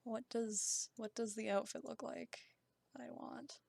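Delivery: talking around a pen in the mouth; pen in mouth while talking; pen in teeth. Real, not acted. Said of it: "put my pen in my mouth".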